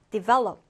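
develop with the stress on VEL; second-syllable stress. Shown as a demonstration. Teacher modelling develop for learners, second-syllable stress. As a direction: hit the middle syllable of develop. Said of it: "두 번째 음절의 강세를 두고요".

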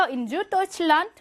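in Süddeutschland said slowly in German; slow German demo. Shown as a demonstration. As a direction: read it out very slowly. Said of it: "German teacher models German".

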